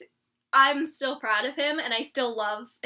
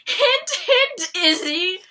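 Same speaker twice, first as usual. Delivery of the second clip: teasing hint; 8 semitones higher, 7 dB louder, much slower than usual. Retold or imitated. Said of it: "and I was like".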